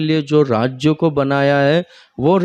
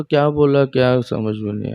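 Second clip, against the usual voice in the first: confused listener. Retold or imitated. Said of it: "ऐसा बोलता है".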